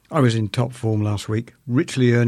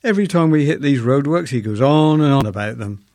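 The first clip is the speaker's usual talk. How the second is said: higher, louder indignant wife; a hint of an exasperated wife, raised and loud; mock indignant wife; 3 semitones higher, 5 dB louder than usual. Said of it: "she cried".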